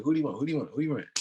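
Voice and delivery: high, loud repeated mock calls; insistent retold yelling. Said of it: "people see me yelling".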